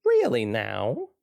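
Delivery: slow, probing reporter voice; suspicious reporter. Acted. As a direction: drag it out like a sly interrogator. Jim voiced in the reading.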